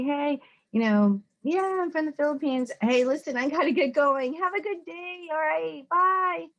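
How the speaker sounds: kindly excusing yourself; polite brush-off demo. Shown as a demonstration. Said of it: "You just communicate honestly and you say".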